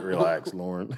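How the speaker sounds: low, soft, soothing aside; calming retort. Retold or imitated. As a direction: imitate yourself quietly calming your wife down. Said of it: "I'm like".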